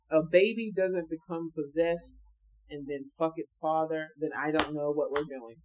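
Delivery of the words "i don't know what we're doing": laughing. Real, not acted.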